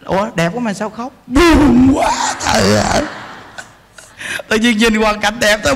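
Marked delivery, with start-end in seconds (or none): 1.3-3.0 a sob in the voice on the first words; mock crying. Monk mimicking someone who cries at beautiful scenery. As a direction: whimper it like tears well up.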